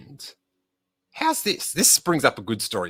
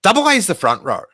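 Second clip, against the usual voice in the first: dismayed realisation; 8 semitones higher, 4 dB louder, faster than usual. Retold or imitated. Punchline reveal of ticket mistake.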